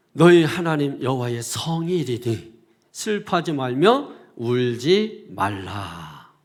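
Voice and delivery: verse read out firmly, slowing to a low close; scripture proclamation. Real, not acted. Preacher quotes the verse to the congregation, solemn proclamation. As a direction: proclaim it, drawing out the final words.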